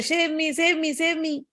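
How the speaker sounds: lightly acted cry for rescue; a storyteller's mild drowning plea; lady calling for help. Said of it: "sees somebody's hand coming there".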